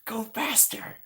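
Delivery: high, urgent cartoon toad voice; high frantic Toad impression; imitating Toad. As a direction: push for speed in a high voice. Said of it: "he's like".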